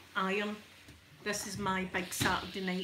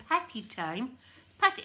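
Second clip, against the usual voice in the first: puzzled question in imitated Australian accent; 3 semitones higher, 4 dB louder than usual. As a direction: mimic an Australian repeating the words, baffled. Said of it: "the Australian man was going".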